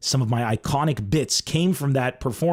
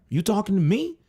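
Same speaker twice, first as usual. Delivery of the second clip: higher, rising "You talking to me?"; De Niro impression; 6 semitones higher than usual. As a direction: throw the question up high like De Niro. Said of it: "In Taxi Driver".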